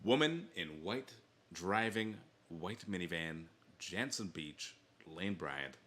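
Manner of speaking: reading a sleazy personal ad, lightly; slow, deadpan dramatic ad read; bad acting. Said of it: "the main reason I wanted to read this".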